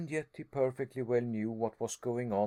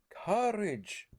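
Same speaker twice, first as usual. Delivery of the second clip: much higher, incredulous; indignant cry; 9 semitones higher than usual. A narrator's reading. Harry to his uncle, incredulous cry. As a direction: throw the word back at him. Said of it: "I cried".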